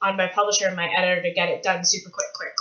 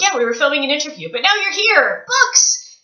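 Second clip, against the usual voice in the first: fast, building up to a high shout of books; retold excited yell; 4 semitones higher than usual. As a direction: rush it then yell books in glee. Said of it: "And I was like".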